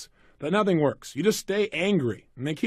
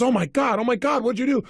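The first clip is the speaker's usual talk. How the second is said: panicked; 5 semitones higher than usual. Retold or imitated. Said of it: "She immediately freaks out".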